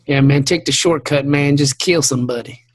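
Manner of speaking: mock redneck urging; lightly voiced redneck; redneck guy. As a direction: egg them on as a redneck. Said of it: "the redneck guy".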